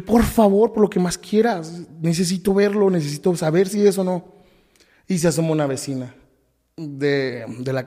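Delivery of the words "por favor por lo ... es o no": higher-pitched re-enacted begging; insistent retold plea; desperate pleading. Re-enacted begging soldiers to pass.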